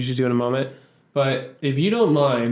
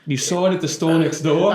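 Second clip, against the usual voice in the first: put-on playful New York accent, question; a touch of New York, rising; 3 semitones higher than usual. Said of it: "this accent too".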